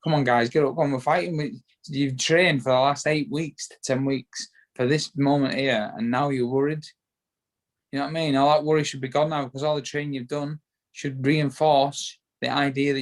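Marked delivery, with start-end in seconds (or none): 0.0-6.8 urging the others on, lightly acted; mild motivational push, retold; rallying pep talk. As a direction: imitate geeing up nervous teammates. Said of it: "trying to pick 'em up".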